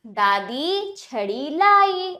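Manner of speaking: दादी छड़ी लाई slow but connected; joined-up reading. Shown as a demonstration. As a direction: join दादी छड़ी लाई into one measured sentence. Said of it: "अब वाक्यों का उच्चारण करते हैं".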